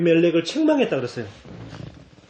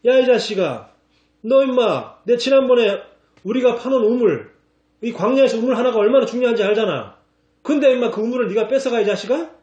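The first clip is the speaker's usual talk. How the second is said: higher, louder scolding shout, faster at the end; angry rebuke; 6 semitones higher, 3 dB louder than usual. Retold or imitated. Pastor voicing Abraham rebuking the king, loud mock anger. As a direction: scold him like a man whose well was stolen. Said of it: "오히려 아브라함이 책망하잖아".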